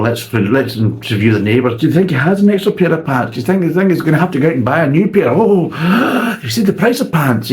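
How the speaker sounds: hammed-up news reporter; spoof reporter. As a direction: play a breathless TV reporter.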